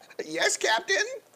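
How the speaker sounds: very high, timid, meek puppy-like voice. Retelling answering the captain, the speaker acts meek like a scolded puppy. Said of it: "I look like a puppy being punished".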